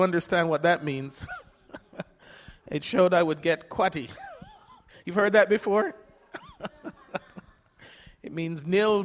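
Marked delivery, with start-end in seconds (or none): 2.7-6.6 chuckling. Real, not acted. Laughing at own pension statement.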